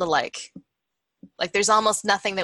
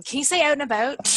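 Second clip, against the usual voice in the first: mimicked request; 8 semitones higher, faster than usual. Mimics Americans asking her to say it.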